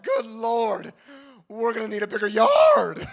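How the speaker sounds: high shouted alarm; mock panic shout; shocked yell. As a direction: yelp it out in alarm. Shocked by girl's butt hit.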